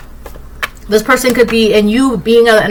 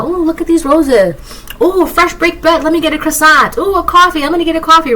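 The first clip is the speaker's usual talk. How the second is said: much higher, airy and delighted, savouring each treat; carefree delighted stroller; 8 semitones higher than usual. Acted. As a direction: float along like nothing in the world can rush you. Carefree person strolling to a meeting.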